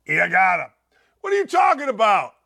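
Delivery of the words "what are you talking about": mock defensive. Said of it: "answers a cheating question with a question".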